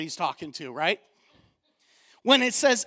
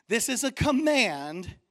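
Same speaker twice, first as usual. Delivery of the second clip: fired-up preaching; 2 semitones higher than usual. Real, not acted. Pastor preaching on love, raising his voice with fire. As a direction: preach it hard to the congregation. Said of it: "Let me get my preaching going on here".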